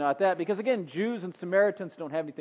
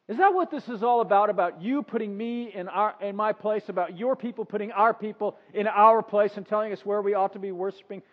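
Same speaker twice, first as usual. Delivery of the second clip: higher, louder confrontation; challenging; 4 semitones higher, 5 dB louder than usual. Acted. Woman accusing Jesus of putting her in place, challenging. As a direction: push back hard at him.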